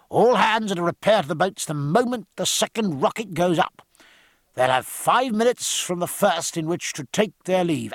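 captain addressing the crew; loud and clear. Acted. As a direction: call it out to the deck. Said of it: "he said loud and clear".

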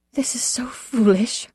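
slow, faint whisper. A narrator's reading. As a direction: whisper it, weary and bewildered. Narrator voices ailing mother.

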